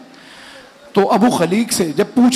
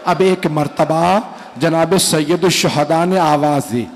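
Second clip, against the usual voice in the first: lamenting recitation building to wail; slower than usual. Acted. Preacher rousing the mourners to weep, rising lament. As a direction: build the lament until it breaks out.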